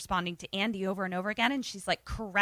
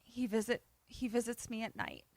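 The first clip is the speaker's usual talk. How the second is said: terrified; 3 semitones higher, 9 dB quieter than usual. Retold or imitated. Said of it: "looks terrified".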